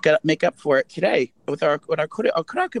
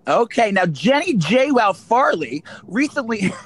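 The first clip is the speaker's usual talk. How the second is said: reporter voice; 4 semitones higher, slower than usual. Pretend. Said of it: "can I pretend I'm a reporter".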